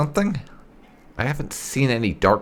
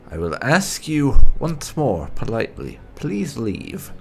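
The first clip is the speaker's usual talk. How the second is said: firm warning; 3 semitones higher, 6 dB louder than usual. Acted. Threatening a trespasser to leave.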